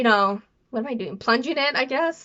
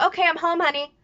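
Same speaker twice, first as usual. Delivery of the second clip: higher-pitched voice for mom; imitating mom; 6 semitones higher than usual. Mom texting back to her daughter, lightly imitated. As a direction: lightly act out a mother's reply. Voicing mom's reply text.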